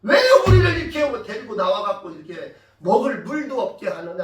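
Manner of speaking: loud opening burst of blame, then subsiding; acted grumbling at the leader; resentful complaint. Thirsty people blame Moses for bringing them out, resentful complaint. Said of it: "모세를 얼마나 원망했겠어".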